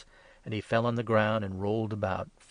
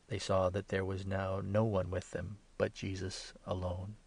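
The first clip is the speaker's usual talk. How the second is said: ordinary delivery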